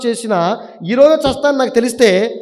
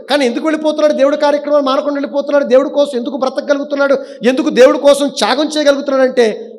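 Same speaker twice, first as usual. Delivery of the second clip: raised-pitch rhetorical questions; impassioned preaching; 5 semitones higher, 4 dB louder, faster than usual. Real, not acted. Preacher asks why believers sacrifice for God, impassioned preaching. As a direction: press question after question on the congregation.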